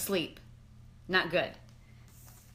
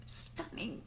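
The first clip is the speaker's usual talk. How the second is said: laughing; 13 dB quieter than usual. Real, not acted.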